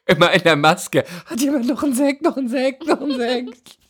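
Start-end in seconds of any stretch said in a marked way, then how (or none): 1.2-3.8 much higher, sing-song pleading; mock desperate for Sekt. Nervous actress begs the set for Sekt, mock pleading. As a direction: beg for more bubbly, hammed up. Imagines drinking before the scene.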